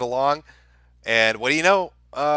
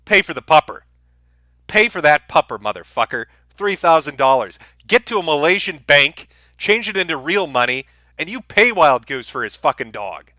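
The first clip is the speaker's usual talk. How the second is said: heated demand. Real, not acted. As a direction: bark the demand, fed up. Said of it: "I get a little heated".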